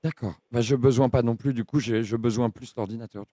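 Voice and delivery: low, halting, lonely oddball; dopey confused voice. Acted. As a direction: play a muddled lonely man rambling. Keeps confused caller character.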